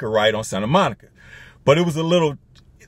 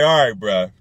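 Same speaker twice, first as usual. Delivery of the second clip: lower-pitched, bassy reply; put-on deeper guy voice; extra bass; 5 semitones lower than usual. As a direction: drop the voice for some extra bass. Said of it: "I put a little extra bass".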